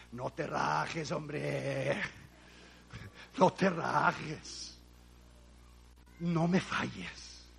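slow, soft pleading to God; hushed retold plea; pleading prayer. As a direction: beg quietly, drawing out each word.

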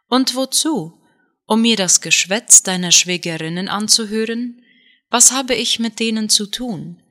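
put-on a mild childlike whine; whiny complaint. Wife nagging her husband about his family, mild whining. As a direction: nag like a sulking child, lightly. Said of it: "Sie klang wie ein quengelndes Kind".

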